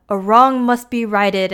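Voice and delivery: slow, lightly mock-solemn pronouncement; a hint of the mystical seer, slowed down; mystical troll. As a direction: imitate a troll elder making a slow prophecy. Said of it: "is all mystical".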